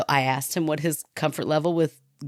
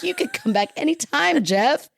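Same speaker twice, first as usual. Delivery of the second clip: high-pitched, gushing mock invitation; eager invitation; 9 semitones higher than usual. Host retelling how she invited Jeff back, eager and high.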